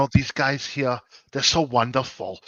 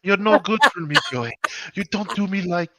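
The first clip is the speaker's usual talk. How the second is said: German role; 4 semitones higher, 3 dB louder than usual. Pretend. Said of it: "go into my German role".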